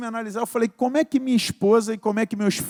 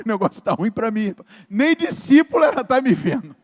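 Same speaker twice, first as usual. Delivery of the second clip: desperate; 5 dB louder than usual. Retold or imitated. Man reporting his wife's bad verdict, retold desperation. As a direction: build to a dismayed, emphatic complaint. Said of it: "Aí ele voltou desesperado".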